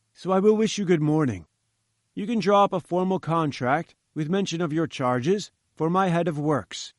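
a hint of a haughty scientist, lofty; lightly voiced pompous professor. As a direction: read it like a grand, self-important professor. Challenger dismissing Jones.

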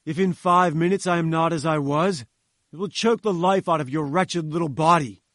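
loud, furious threat. Acted. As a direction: growl the threat in rage. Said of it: "he panted in his fury".

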